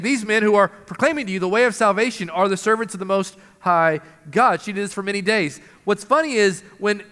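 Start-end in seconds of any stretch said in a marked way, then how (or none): 0.0-4.6 fast, even run-through of the cry; preacher repeating the girl's cry, fast and light; quick rattled-off quote. Retold or imitated. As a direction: rattle it off briskly as a recap. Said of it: "She's saying".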